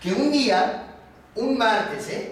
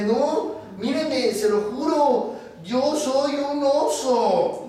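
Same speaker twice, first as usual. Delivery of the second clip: higher-pitched pleading protest; confused bear; 5 semitones higher, slower than usual. Acted. Bear swearing to the foreman he is a bear, confused. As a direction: insist earnestly, stretching the last words. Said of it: "cada vez estaba más confundido".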